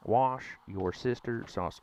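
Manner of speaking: Worcestershire sauce as Wash your sister sauce, stressing sauce; mock American Wash your sister sauce; American mispronunciation. Shown as a demonstration. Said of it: "repeats it slowly".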